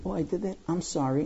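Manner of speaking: soft, throwaway mock apology; imitated offhand apology. Big kid to crying little one, offhand mock apology. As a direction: toss off the sorry quietly, as a child would.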